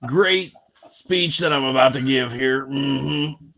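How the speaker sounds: lightly voiced slow drawling character; a hint of Sling Blade; Sling Blade impression. Mocking a speech opening in a light Sling Blade voice. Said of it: "He went all Sling Blade".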